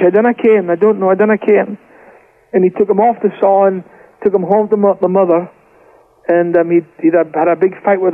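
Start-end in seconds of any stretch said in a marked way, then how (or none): 0.0-1.8 lightly voiced broad Scots; Scottish dialect. Brother asks what's wrong, father answers in Scottish dialect. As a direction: retell it in Scots dialect, slightly raised. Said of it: "And he said in Scottish".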